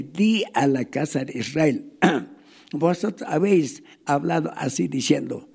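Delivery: solemn Bible reading; scripture reading. Acted. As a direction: proclaim the verse to the congregation. Reads Ezekiel 33 aloud.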